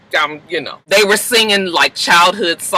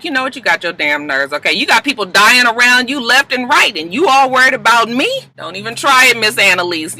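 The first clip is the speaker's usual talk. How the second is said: scolding mama; 5 semitones higher than usual. Retold or imitated. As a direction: put her daughter in her place. Mama voiced scolding daughter.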